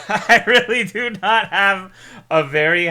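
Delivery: loud, high laugh into words. Real, not acted. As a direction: laugh while speaking. Laughs at own opinion.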